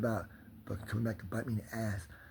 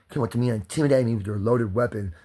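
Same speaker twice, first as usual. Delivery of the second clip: loud furious rant; angry yelling; 2 semitones higher, 7 dB louder than usual. Real, not acted. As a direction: yell it at the cop. Yelling at the cop.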